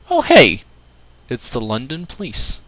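put-on a gamer's hammy stab at a British accent; British accent impression. Gamer greeting the London Police, mock British accent. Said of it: "my best impersonation of a British person".

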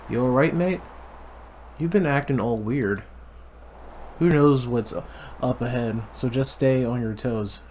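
put-on butchered Irish accent. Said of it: "butchered Irish accent".

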